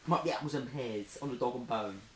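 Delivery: Cockney accent for rhyming slang. Shown as a demonstration. Showing friends rhyming slang, Cockney accent. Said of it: "Do some Cockney rhymes".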